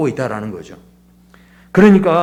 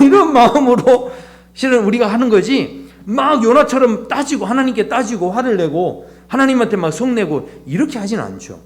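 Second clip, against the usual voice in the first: ordinary delivery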